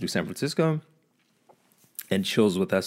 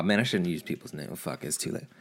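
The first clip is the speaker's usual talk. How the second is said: ordinary talk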